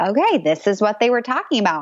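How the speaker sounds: ordinary delivery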